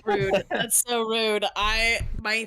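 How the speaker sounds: high, loud mock outrage; mock offended. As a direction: act scandalized, laughing. Mock offense at player's wish.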